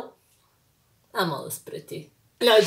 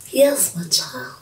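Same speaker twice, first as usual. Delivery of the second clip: godfather voice; 6 semitones lower, slower than usual. Pretend. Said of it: "I feel like I'm the godfather".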